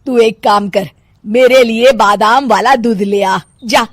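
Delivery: curt, emphatic order; bossy mother-in-law. Acted. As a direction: send her off on an errand. (हुक्म चलाती सास)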